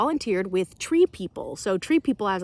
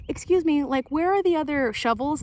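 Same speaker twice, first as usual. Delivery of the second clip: a hint of a lost volunteer, higher voice; mild mock polite question; polite stranger; 7 semitones higher, 4 dB louder than usual. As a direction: ask politely for the shovels, pitch lifted. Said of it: "they'd be like".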